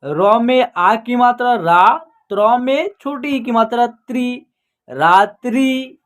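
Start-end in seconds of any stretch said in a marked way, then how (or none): 4.9-6.0 रात्रि slowly, both syllables drawn out; pronunciation demo. Shown as a demonstration. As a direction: model रात्रि slowly for learners. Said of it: "क्या उच्चारण होगा?". (धीमे, खींचकर रात्रि का उच्चारण)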